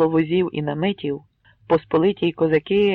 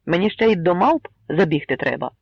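joking. Acted. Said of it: "пожартував Кремезний".

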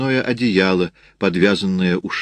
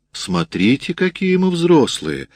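high, drawn-out cooing exclamation; exclaiming; 7 semitones higher, slower than usual. A narrator's reading. Canteen woman admiring a baby's age, exclaiming. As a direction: rise into playful amazement. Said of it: "воскликнула маркетантка".

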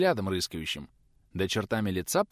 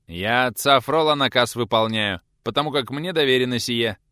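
louder, restrained angry growl; growled rebuke; 4 semitones higher, 7 dB louder than usual. A narrator's reading. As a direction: hold back a shout and growl it. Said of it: "прорычал преподаватель".

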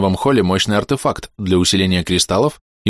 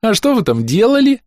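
put-on curious little girl; 4 dB louder than usual. A narrator's reading. Child asks excitedly.

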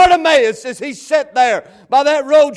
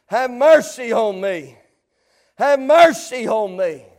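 repeated plea, lifted up out of the hush; rising plea; 3 semitones lower than usual. Acted. Preacher repeating the beggar's plea to the congregation, lifted pleading. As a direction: plead it out more openly, stretching mercy. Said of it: "there was a plea that was given".

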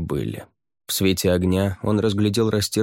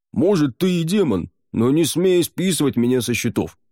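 louder gruff grumble; grumbling; 8 semitones higher, 4 dB louder than usual. A narrator's reading. Barnish to the demon, louder gruff grumble. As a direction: grumble back, offended. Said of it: "проворчал Барниш".

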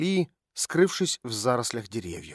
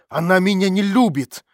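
higher, louder bitter outburst; angry cry; 5 semitones higher, 7 dB louder than usual. A narrator's reading. Olya shouts angrily about her mother, loud and high. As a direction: fling it out in anger. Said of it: "вскричала Оля со злостью".

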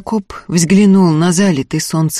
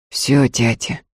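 flat lifeless voice; 4 semitones lower, slower than usual. A narrator's reading. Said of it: "ровным, неживым голосом сказал он".

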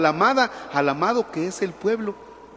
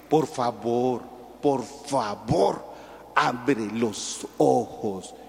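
pleading parent; 6 semitones lower, 7 dB quieter, much slower than usual. Retold or imitated.

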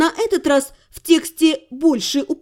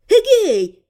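excited; 7 semitones higher, 4 dB louder than usual. Acted. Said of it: "Элька аж подпрыгнула".

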